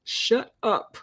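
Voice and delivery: high, squeaky mock telling herself to shut up; inner voice squeal. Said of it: "in my mind, I'm like".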